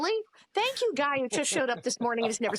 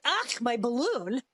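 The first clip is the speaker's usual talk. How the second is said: heartless Cass; slower than usual. Retold or imitated. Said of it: "He's like".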